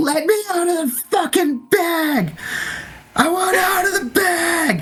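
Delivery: mock screaming. Describing what is heard all night while falling asleep, the speaker imitates screaming. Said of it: "all you hear is just screaming".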